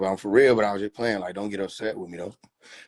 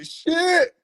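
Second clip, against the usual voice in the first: much higher put-on mushroom voice; a beaten little mushroom swearing; Shroom cursing; 3 dB louder than usual. Abused mushroom Shroom mutters a curse in a high voice. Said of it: "All you hear Shroom say".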